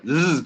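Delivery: short voiced zzz; bee buzz. Shown as a demonstration. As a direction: buzz a clear Z. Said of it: "que se escuche el sonido". (zumbido sonoro de abeja)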